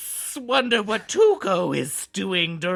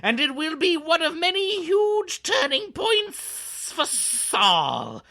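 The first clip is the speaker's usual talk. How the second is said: drawn-out s like a snake; 5 semitones higher than usual. Acted. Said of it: "You can keep it going".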